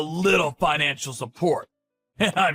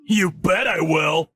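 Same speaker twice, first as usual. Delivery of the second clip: angry shout; slower than usual. Acted. Ex-husband yelling at ex-wife.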